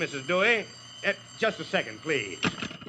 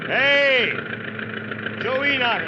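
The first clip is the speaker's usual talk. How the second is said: calling out; 4 semitones higher, much slower than usual. Acted. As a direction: shout to catch his attention. Mayor calls to Joe outside.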